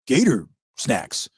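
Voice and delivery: slow, dreamy gator craving snacks; mock gator voice. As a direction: voice a lazy gator savoring the thought of snacks. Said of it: "They'll go".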